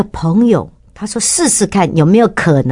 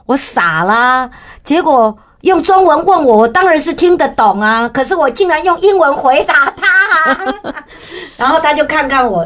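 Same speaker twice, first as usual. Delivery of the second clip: high, laughing embarrassment; 边笑边自嘲; laughing at herself; 9 semitones higher than usual. Real, not acted. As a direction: laugh through the silly memory. Laughing at her own blunder.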